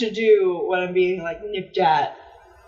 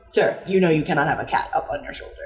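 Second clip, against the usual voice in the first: stern inspector; 3 semitones lower, much faster than usual. Retold or imitated. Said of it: "the inspector is like".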